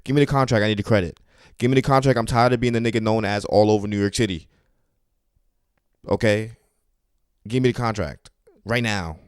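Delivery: high, loud, pushy demand building to a shout; demanding the contract. Retold or imitated. The comic demands the producer lady hand over the contract, high and pushy. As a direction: beg for the contract like it's your big break. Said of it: "I'm like".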